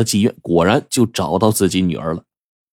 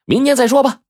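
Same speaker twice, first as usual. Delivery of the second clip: chuckling. Acted. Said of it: "胡半仙儿一笑".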